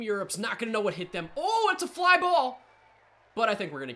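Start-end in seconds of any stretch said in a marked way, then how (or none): 1.4-2.6 loud, higher burst of excitement; excited yell. Real, not acted. Gamer yelling at a fly ball in excitement. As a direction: shout it as the ball flies up. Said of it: "I'm not gonna go like this every single play".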